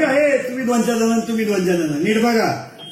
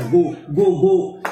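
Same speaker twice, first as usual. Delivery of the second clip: each गो called out on its own, a slight lift on the last; calling out the sound go; 4 semitones lower, much slower than usual. Shown as a demonstration. Teacher shows the audience the syllable गो they must listen for. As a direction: tap out गो, गो, गो as separate beats. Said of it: "त्याला गो शब्द ऐकू यायला".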